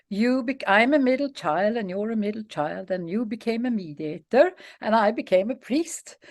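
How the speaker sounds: lightly imitated Swedish vicar; Swedish accent. Swedish vicar comparing himself with a mediator, light Swedish accent. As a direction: speak with a hint of Swedish accent. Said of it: "in his Swedish accent".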